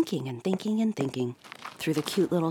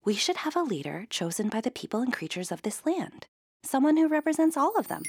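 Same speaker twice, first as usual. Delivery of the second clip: inspired; 9 semitones higher than usual. A narrator's reading. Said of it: "She said out loud".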